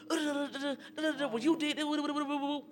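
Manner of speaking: high scatting rant, arguing gibberish; mock heated ranting. Retelling the fight with his girl, high mock ranting. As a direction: rattle off nonsense like a heated fight. Retold heated argument outside.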